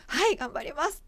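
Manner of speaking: glib yes. Retold or imitated. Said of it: "調子よく".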